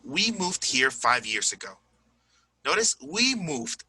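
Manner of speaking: "moved" as one syllable; -ed as plain D. Shown as a demonstration. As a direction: end "moved" on a voiced d, no extra vowel. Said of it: "just pronounce the D".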